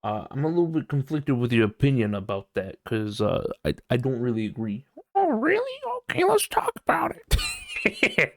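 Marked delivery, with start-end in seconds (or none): 5.2-8.3 high, slowed, put-on voice; mock high voice. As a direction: play it like a prissy cartoon. Mock reply to friend's disagreement.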